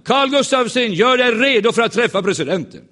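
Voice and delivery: high, loud announcement of the name; called-out summons. Retold or imitated. Usher loudly summons the preacher to the president. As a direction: call it across the hall like an usher. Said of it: "skrek en man".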